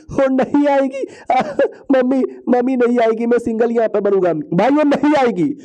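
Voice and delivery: high-pitched, hammed-up lovelorn whine; mock heartbroken wail. Lovelorn man moaning she will never come, mock wailing. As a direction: wail like a comic jilted lover.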